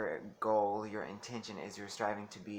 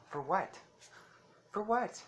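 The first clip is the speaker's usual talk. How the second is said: indignant; 9 semitones higher than usual. Real, not acted. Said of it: "repeated, rising indignation".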